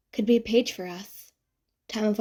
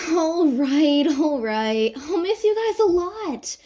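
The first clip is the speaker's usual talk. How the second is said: chuckling reply; 5 semitones higher, 4 dB louder than usual. Acted. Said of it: "she chuckles in return".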